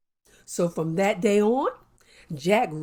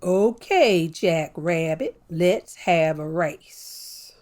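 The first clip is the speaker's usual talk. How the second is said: slow, low and drawn-out turtle; calm turtle challenging the boastful rabbit, unhurried; 4 semitones lower, slower than usual. Acted. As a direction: take your time like a patient turtle. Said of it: "So he said".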